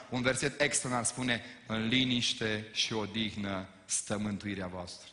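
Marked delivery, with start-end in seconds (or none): 1.7-5.1 serene verse reading. Acted. Quoting a Bible verse reverently.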